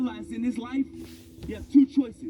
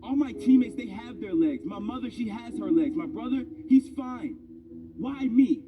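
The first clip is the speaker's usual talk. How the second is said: retold anger; 4 semitones higher than usual. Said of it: "being mad at the world".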